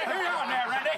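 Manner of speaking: loud, high blustering cartoon rooster; big blustery cartoon Southerner; Foghorn Leghorn. Shown as a demonstration. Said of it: "was that Foghorn Leghorn".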